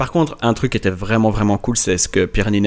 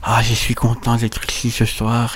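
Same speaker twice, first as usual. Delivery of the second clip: lisp; slower than usual. Retold or imitated. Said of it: "elle parlait tout doucement, comme ça".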